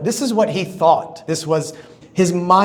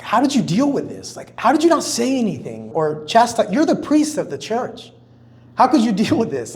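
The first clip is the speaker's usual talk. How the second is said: higher-pitched, retold disbelief at normal volume; imitated incredulous questioning; 6 semitones higher than usual. Wife asking the priest how he coped, imitated incredulity. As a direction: voice her baffled questions, pitched up.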